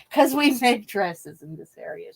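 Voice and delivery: a hint of exasperated Italian mother. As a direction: lightly imitate an Italian mom laying down the law. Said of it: "it was so Italian".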